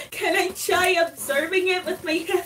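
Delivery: asking through laughter; laughing. Real, not acted. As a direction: try to ask while laughing. Player laughing while asking.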